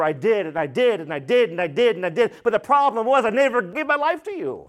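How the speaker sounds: lightly acted insistent plea; pleading churchgoer. Churchgoers pleading with the Lord on that day, insistent. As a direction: list your good deeds, building to a confession. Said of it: "We could bring it to modern connotation".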